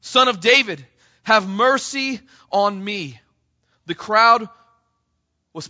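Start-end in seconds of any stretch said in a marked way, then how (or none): 0.0-3.2 loud, pleading cry for mercy; preacher acting out a loud cry for mercy. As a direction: call out over a crowd, begging. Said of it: "he kept crying out all the more".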